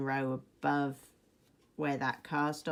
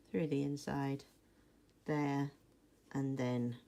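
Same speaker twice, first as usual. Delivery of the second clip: muffled, talking around a needle; needle in mouth. Real, not acted. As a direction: speak with a needle between your lips. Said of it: "Funny muffled voice while I, uh, hold the needle in my mouth".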